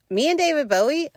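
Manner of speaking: thrilled squeal. Retold or imitated. Thrilled about being family.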